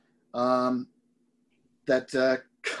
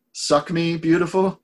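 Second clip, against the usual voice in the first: quoting a cheesy line; 5 semitones higher, 3 dB louder, slower than usual. Retold or imitated. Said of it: "the first one that really popped out to me was".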